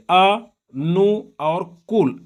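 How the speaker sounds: अ, नु और कुल split into slow separate syllables; a teacher breaking the word into parts. Shown as a demonstration. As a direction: spell अनुकूल out slowly, one piece at a time. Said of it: "ऐसा confuse करने के लिए".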